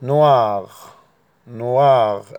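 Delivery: "نواغ" بالراء الفرنسية; French noir. Shown as a demonstration. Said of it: "اسمه".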